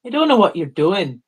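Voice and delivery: Canadian accent going Irish; attempted Canadian accent. Shown as a demonstration. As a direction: try a Canadian accent that slides toward Irish. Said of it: "the Canadian accent nailed".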